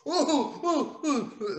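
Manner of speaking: high, soft laughing ooh-ooh; mocking giggle; giggling hoots. Real, not acted. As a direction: laugh through the words. Laughing at fans.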